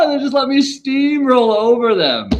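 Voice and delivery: high, loud, slow gloating; slow excited brag. Real, not acted. Telling viewers about debate rivals with slow, loud gloating. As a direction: stretch it out like a slow-motion win.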